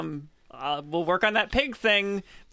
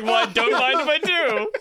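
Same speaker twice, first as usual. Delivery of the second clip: put-on Southern accent; 5 semitones higher, 5 dB louder than usual. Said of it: "He's like".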